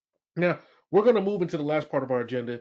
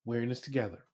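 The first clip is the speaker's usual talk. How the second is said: supportive boss; 5 semitones lower, 4 dB quieter than usual. Shown as a demonstration. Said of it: "That sounds like support".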